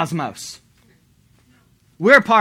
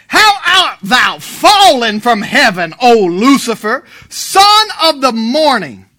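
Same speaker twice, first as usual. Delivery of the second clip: loud, slow, drawn-out proclamation, raised pitch; scripture reading; 4 semitones higher, 9 dB louder, slower than usual. Acted. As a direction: proclaim the verse at full force, stretching each phrase. Reads scripture aloud in preaching.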